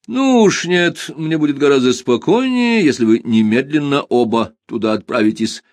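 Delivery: tired patriarch's firm tone; weary family head. Acted. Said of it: "тоном усталого главы большого семейства".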